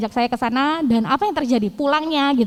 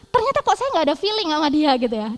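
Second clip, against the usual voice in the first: ordinary delivery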